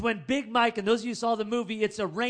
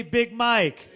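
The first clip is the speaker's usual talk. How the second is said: call and response; 6 dB louder than usual. Shown as a demonstration. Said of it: "Somebody say".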